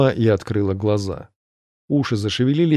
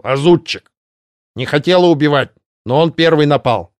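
high, loud cawing gargoyle voice; croaking voice; 4 semitones higher, 4 dB louder than usual. Acted. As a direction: croak it like a crow. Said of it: "произнесла каркающим голосом".

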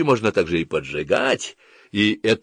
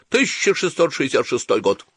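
higher recited date, falling away; as if to oneself; 5 semitones higher than usual. A narrator's reading. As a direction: intone the year like a private refrain. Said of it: "начинал бормотать как бы про себя".

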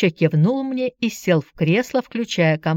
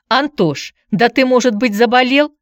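higher, mildly anxious question; worried; 6 semitones higher, 5 dB louder than usual. A narrator's reading. Aunt asks nephew if he is ill, worried. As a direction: fret over a child, pitch rising at the end. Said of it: "забеспокоилась Мария Романовна".

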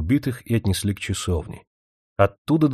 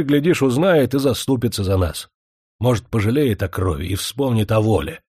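резко. Acted. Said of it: "сказал резко".

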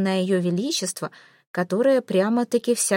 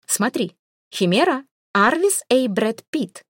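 command to a device; 4 semitones higher, 3 dB louder than usual. Acted. Queen gives voice command to android.

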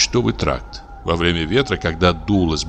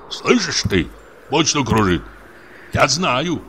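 higher, spiteful accusation at his wife; 7 semitones higher than usual. A narrator's reading. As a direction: hiss it at her, sure she's to blame. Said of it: "злобно косясь на жену".

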